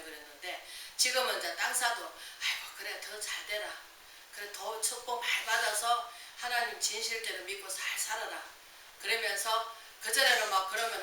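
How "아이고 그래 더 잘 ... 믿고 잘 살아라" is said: soft, half-whispered goodwill; gentle blessing. Retold or imitated. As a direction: bless them softly from the heart. Voicing a blessing to a neighbour. (속삭이듯 부드럽게 축복하는 말투)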